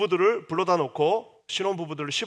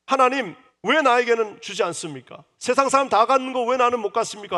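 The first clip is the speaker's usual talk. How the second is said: higher, louder desperate plea; appeal to God; 7 semitones higher, 6 dB louder than usual. Acted. Rachel crying out to God for a child, loud desperate plea. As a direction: cry out to heaven, why not me. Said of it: "하나님에게 호소하고 있는 겁니다".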